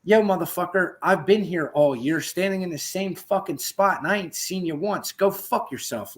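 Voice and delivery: mock Samuel L. Jackson rant, slowing on the last line; Samuel L. Jackson style. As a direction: tear into him like Samuel L. Jackson. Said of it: "like Samuel L. Jackson".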